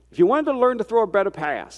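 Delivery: a touch of father's Southern accent on "better pass". Real, not acted. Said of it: "That was my father's Southern accent".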